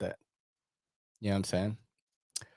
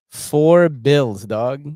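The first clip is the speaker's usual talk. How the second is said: louder, punchy outrage at the price; 2 semitones higher, 7 dB louder, much slower than usual. Real, not acted. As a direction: shout the price in disbelief.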